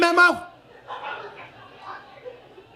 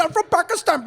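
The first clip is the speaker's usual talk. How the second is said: mock offended reply; 5 semitones higher than usual.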